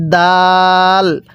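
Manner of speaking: দাল with a hard d and long-held aa; firm দাল. Shown as a demonstration. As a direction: press the d of দাল, stretch it slowly. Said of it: "এই দালটা আমরা একটু শক্তভাবে উচ্চারণ করব". (দাল শক্ত করে টেনে)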